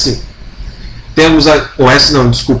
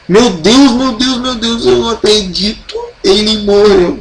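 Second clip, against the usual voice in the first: high, hammed-up disbelief; mock shock; 6 semitones higher than usual. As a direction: play shocked at terrible news, pitched up. Encena choque com morte, depois vergonha. (choque fingido, voz aguda de incredulidade)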